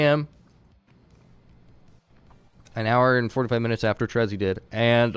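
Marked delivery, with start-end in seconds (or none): 2.7-5.2 mouth full. Real, not acted. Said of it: "excuse me for munching".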